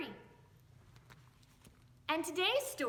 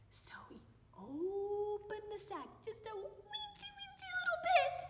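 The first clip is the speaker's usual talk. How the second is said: suspenseful whisper; 8 semitones higher than usual. A narrator's reading. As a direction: hush it like a secret. Boy peeks in sack.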